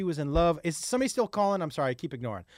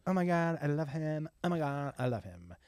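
lovestruck daughter; 6 dB quieter than usual. Retold or imitated. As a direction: mimic a girl sighing over her crush. Voicing lovestruck teenage daughter.

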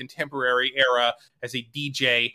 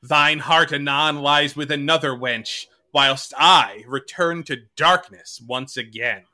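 Shakespearean actor; slower than usual. Acted. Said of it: "I will read it again".

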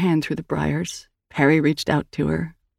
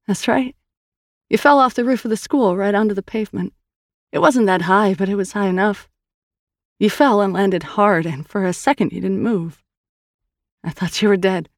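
higher, earnest sister voice; Sal's voice; 4 semitones higher than usual. Acted. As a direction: tell it gently, coaxing a memory. Narrator voices Sal.

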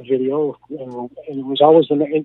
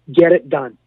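retold firm order; 7 dB louder than usual. Coach insisting in retold argument.

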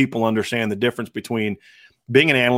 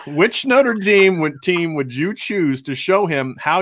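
high laugh while reading; 4 semitones higher, slower than usual. Real, not acted. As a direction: giggle as you read it. Laughs reading funny question.

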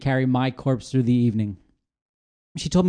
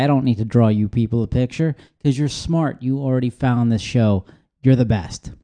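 earnest pep-talk voice; motivational speaker; 2 semitones lower than usual. Acted. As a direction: hype up the audience like a life coach. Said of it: "I don't know why I'm talking like I'm a weird motivational speaker".

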